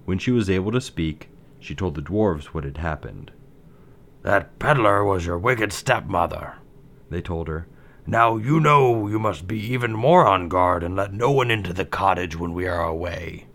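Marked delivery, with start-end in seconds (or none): 4.2-13.5 dwarf voice. Acted. Dwarves warn Snow White.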